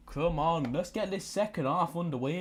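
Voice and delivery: eager urging. Real, not acted. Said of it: "urging the match on".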